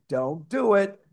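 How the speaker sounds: inner voice rising from a mild warning to a high shout. Retold or imitated. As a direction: build the inner warning until it is nearly shouted. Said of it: "you hear that voice inside your head saying".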